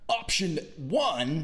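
slow, drawn-out host announcement; a light take on the host reading options; game show voice. Retold or imitated. Imitating a musician hosting, lightly voiced and slow. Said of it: "he doesn't really talk like that".

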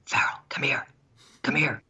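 half-whispered beckoning; urgent under the breath; hushed summons. Retold or imitated. Co-worker discreetly summoning him in story.

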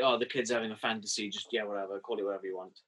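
offhand mock dismissal, trailing down; dismissive. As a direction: wave it away as a child's nonsense. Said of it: "it's kind of dismissed".

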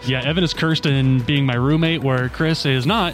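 muffled behind a face mask; through a face mask. Real, not acted. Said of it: "I'm wearing a mask right now".

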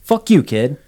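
a sergeant's friendly-hostile jab; gruff insult. A narrator's reading.

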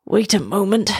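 out of breath from swimming; winded turtle asking for a pause; panting. A narrator's reading. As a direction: catch your breath as you speak. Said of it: "panted the turtle".

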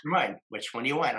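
mildly exasperated, quick retold reply; a little frustrated. Church secretary to a wavering caller, a little frustrated. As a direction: imitate someone hurrying a caller along, a touch impatient. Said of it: "she's a little frustrated".

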